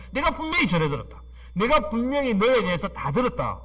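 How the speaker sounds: a hint of Boaz telling Ruth he has heard; voicing Boaz.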